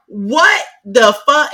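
slow, drawn-out disbelief; mock viewer reacting to the reveal; mock shock. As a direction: stretch the shock out.

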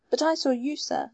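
a maid's fervent confession. A narrator's reading. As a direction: press it with heartfelt feeling. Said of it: "said the girl fervently".

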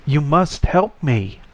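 urgent insistence from a trapped voice; insisting. Acted. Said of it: "the voice insisted".

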